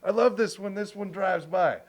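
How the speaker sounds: high eager question; excited about the song. Retold or imitated. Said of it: "he's like".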